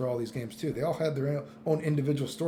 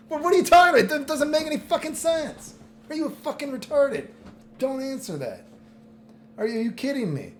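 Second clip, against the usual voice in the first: louder, higher, fast outraged disbelief; exasperated rant; 10 semitones higher, 4 dB louder than usual. Real, not acted. Streamer ranting at fans' logic, loud and high. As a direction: rant at the absurdity.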